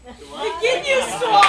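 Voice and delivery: loud, slow, thrilled shout; excited. Real, not acted. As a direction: cheer the name out. Excited fan naming villains.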